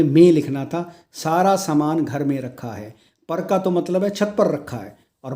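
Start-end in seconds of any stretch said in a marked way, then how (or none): 0.0-0.3 में said loud and punched; teacher stressing में; stressed correction. Shown as a demonstration. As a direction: hit the word में hard. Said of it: "इसकी जगह में".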